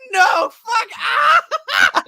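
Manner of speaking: very high, loud scream; hammed-up terror. Reacting to a sword shooting out, hammed-up terror. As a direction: scream it in comic alarm.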